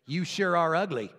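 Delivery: lightly voiced unrepentant parrot; parrot's insult. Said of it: "So the parrot says".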